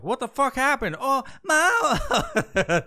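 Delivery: high, laughing mock dismay; mock shocked woman. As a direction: ham up a flustered driver's shock, laughing. Mocking women drivers at crash.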